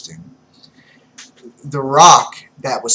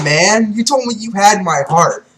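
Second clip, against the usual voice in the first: higher, louder indignant whine; whiny complaint; 4 semitones higher, 4 dB louder than usual. Acted. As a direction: complain like a betrayed coward. Caesar whining at Doflamingo.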